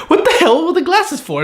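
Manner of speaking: laughing through the question, pitch jumping high; real giggle breaking into the words. Real, not acted. Reviewer laughing at the glasses gag while asking.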